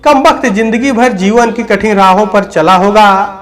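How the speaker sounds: measured first-person storytelling with deliberate phrasing; story narration. A narrator's reading. Dead old man tells listeners of his own death, measured dramatic narration. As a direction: narrate the tale line by line, with pauses between phrases.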